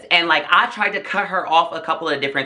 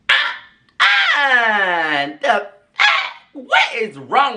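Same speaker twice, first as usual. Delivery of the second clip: shocked; 7 semitones higher, much slower than usual. Real, not acted. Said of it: "shocked outburst".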